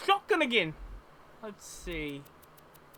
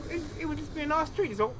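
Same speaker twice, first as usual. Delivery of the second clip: put-on Cockney-Australian accent. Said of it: "I'm doing a mixture of Cockney and Australian".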